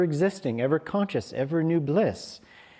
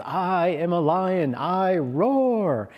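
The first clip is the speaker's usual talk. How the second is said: energetic, raised-pitch declaration; lightly proclaimed, swelling on the last word; dynamic affirmation; 5 semitones higher, slower than usual. Retold or imitated. Master leading the audience, dynamic energetic affirmation. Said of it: "put out that dynamic energy".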